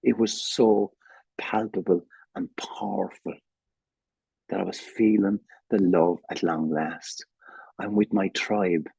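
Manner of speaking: a real catch of emotion, dropping to a whisper. Real, not acted. Telling how ACA made him feel loved, genuinely moved and whispering. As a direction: let the feeling close your throat till it goes to a whisper. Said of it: "I'm even getting emotional now".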